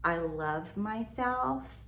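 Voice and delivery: slow, careful textbook affirmation. Shown as a demonstration. Coach showing the standard affirmation, slow and careful. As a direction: spell it out like a by-the-book example. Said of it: "if you say".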